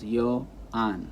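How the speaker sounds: YOAN split into yo and AHN; syllable by syllable. Shown as a demonstration. Teacher counting syllables of own name, Yoan broken in two. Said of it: "It's got two syllables".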